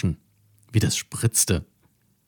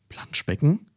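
higher, questioning cow voice with a rising end; puzzled cow echo; 7 semitones higher than usual. A narrator's reading. The cow Carola echoes Mathilda, baffled and questioning. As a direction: repeat the strange word without understanding. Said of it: "Carola verstand nicht".

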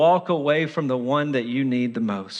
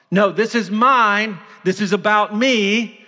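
loud, higher, possessive protest; defiant claim; 4 semitones higher, 4 dB louder than usual. Acted. Sinful heart claiming life from God, defiant. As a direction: insist on it, raised and forceful.

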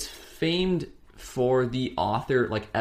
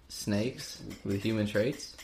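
Hannibal Buress impression; 7 dB quieter, slower than usual. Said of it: "That was a Hannibal Buress voice".

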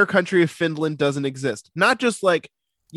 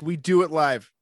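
quoting the famous rant. Retold or imitated. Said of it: "Best rant of all time".

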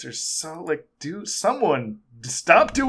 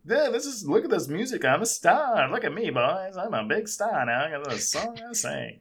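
higher mock boastful star; biopic star quote; 4 semitones higher, 4 dB quieter than usual. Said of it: "That was a direct quote".

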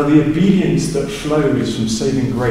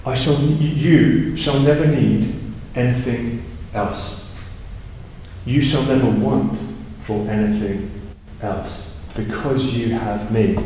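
slow, soft and sincere, fading down; slow sincere paraphrase; 2 semitones lower, 4 dB quieter, slower than usual. Shown as a demonstration. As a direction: speak it gently as a promise. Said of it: "what he's saying is".

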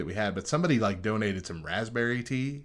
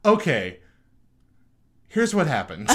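imitating coworker; 6 semitones higher, 3 dB louder than usual. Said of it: "I heard her turn around and go".

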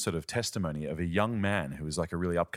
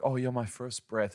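mock religious gushing; 5 semitones higher than usual. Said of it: "in a religious way".

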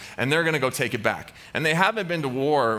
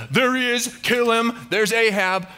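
high, urgent acted yell; battle cry; 7 semitones higher, 4 dB louder than usual. Aram spotting the royal robes, high urgent shout. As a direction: call out the target to the troops.

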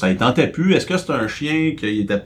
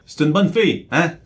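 doggy praise voice. Acted. Praising the dog in pet talk.

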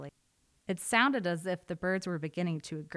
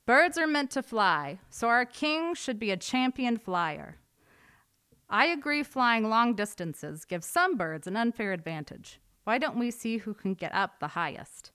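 crafty eagle; 5 semitones higher, 5 dB louder than usual. A narrator's reading. Eagle proposes a contest.

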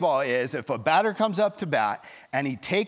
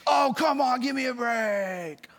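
parents shouting; 10 semitones higher than usual. Retold or imitated. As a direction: jeer at the umpire like an angry parent. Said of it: "the parents start shouting".

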